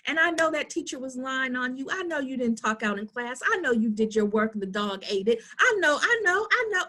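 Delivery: syrupy doting parent, lightly voiced; mock sugarcoating parent. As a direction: coo it like an overindulgent mom. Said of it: "sugarcoat and say".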